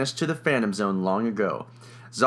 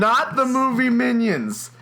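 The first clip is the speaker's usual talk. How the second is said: high-pitched, exasperated overruling; emphatic insistence; 11 semitones higher, 3 dB louder than usual. Real, not acted. Narrator overruling a teasing co-host, emphatic insistence. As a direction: cut off the contradiction, voice jumping up. Insisting over co-host's contradiction.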